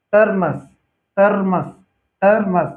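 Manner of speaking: टर्मस with no vowel after r; terms pronounced. Shown as a demonstration. Teacher to students, टर्मस pronounced with no vowel after r. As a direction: say टर्मस with r running into m. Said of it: "तो इसमें अ नहीं आ रहा है".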